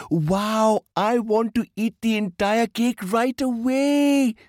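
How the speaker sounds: put-on high-pitched, gleeful child's squeal; excited. A narrator's reading. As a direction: burst out like a kid jumping up and down. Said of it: "jumped Meenu up and down excitedly".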